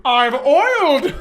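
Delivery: a touch of a proud oiled villain; smug Bane. Pretend. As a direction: savour it smugly. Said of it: "he looks at you".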